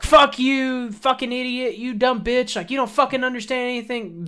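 high-pitched mock tirade; imitated drunk yelling. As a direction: act out an irate passenger berating staff. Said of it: "yelling at her".

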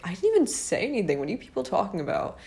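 quick, high-pitched baffled denial; baffled protest. Retold or imitated. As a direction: protest in a rush, mock-bewildered. Retorts to accusing texts, baffled.

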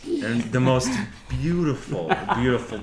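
breathy hushed narration; whispered awe. A narrator's reading.

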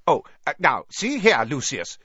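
high, loud, flustered protest; alarmed. A narrator's reading. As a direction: stammer into an anxious objection. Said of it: "looking alarmed".

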